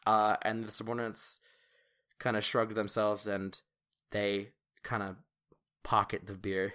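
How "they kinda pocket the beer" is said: ordinary talk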